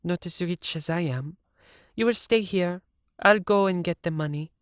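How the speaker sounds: mocking the rich judges; lightly sarcastic Siv. A narrator's reading. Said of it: "Siv said sarcastically".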